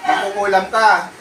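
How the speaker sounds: name the witch to its face; accusing the spirit. Real, not acted.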